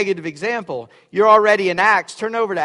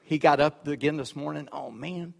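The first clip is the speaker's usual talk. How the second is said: mock groaning demon; 5 semitones lower, 8 dB quieter than usual. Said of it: "demons go".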